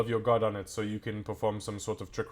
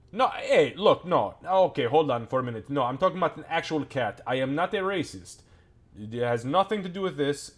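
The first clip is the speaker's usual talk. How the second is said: flustered NPC, louder and higher, backpedalling fast; rushed, higher, louder denial with a laugh breaking in; flustered protest; 6 semitones higher, 5 dB louder than usual. Acted. NPC hastily denies racism to the party, flustered and loud.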